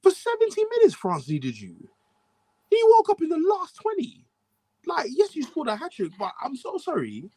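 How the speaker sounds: high-pitched mock French accent. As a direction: scold him in a French accent. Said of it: "Sacre Bleu Walcott".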